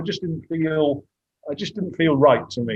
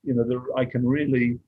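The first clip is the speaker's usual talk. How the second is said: getting emotional; 2 semitones lower than usual. Real, not acted. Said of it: "Sorry, I'm getting emotional".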